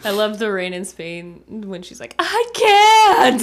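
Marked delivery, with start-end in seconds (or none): 2.2-3.4 high, loud whiny wail; whiny baby voice. Retold or imitated. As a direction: whine like a little baby. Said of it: "whiny little baby voice".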